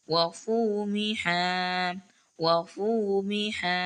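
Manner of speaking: slow chanted recitation of each word; تلاوة مجودة بطيئة; Quran recitation. Shown as a demonstration. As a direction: recite each word with measured tajweed stretches.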